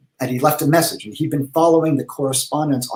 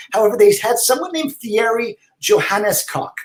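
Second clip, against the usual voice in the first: character letter voice; 7 semitones higher than usual. Acted. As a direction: read the email as the fussy pen-pal character. Reads his email in character.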